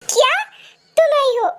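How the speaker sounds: delighted surprise. Acted. Delighted at friend's visit.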